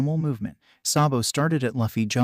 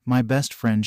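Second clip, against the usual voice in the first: "best" leaned on a little harder; stress on best; 3 dB louder than usual. A narrator's reading. Anna introducing Luffy as her closest friend, stress on "best". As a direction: put extra emphasis on "best". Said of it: "emphasizing the word best more deeply".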